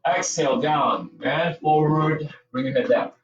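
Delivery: drawn-out movement cue, slow; slow yoga cue. Shown as a demonstration. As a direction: stretch the words along with the movement. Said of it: "Let's do this dynamically".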